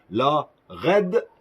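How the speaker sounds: English name in a French accent, drawn out; careful, stretched attempt at an English accent. Real, not acted. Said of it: "Excusez-moi pour mon accent anglais".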